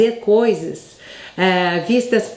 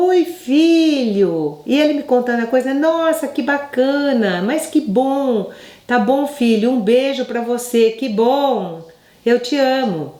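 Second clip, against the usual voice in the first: tender to son; 3 semitones higher than usual. Retold or imitated. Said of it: "Você fala assim com seu filho?".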